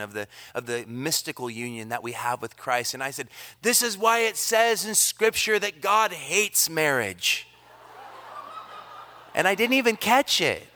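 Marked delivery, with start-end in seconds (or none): 3.6-7.5 with enthusiasm and wonder. Retold or imitated. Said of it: "I said it with enthusiasm and wonder".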